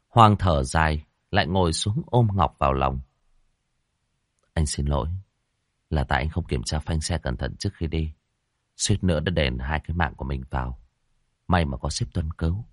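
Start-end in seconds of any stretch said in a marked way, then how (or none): 4.5-12.6 soft, low, sorry murmur; tender apology. Acted. Hoàng apologizes to Ngọc for the brakes, soft and low. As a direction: apologize gently to her.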